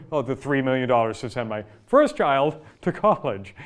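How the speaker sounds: laughing quote. Retold or imitated. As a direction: laugh through the patient's joke about the cost. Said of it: "She said".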